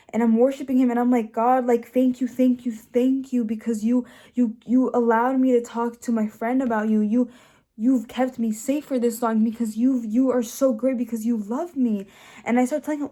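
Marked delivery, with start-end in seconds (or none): 1.3-12.1 louder, insistent outpouring of thanks; fervent retold prayer. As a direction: pour out thanks as if praying.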